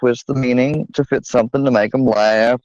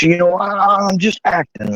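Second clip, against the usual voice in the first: put-on acting voice; 7 semitones higher than usual. Shown as a demonstration. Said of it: "if I talk like this".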